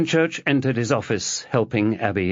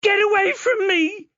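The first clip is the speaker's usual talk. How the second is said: screaming shout. A narrator's reading. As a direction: drive him back with a yell. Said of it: "Chloe screamed again".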